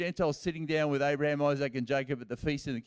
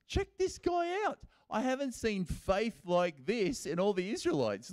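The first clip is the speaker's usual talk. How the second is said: lively Jesus; 5 semitones higher, 4 dB quieter than usual. Retold or imitated. Jesus voiced calling attention.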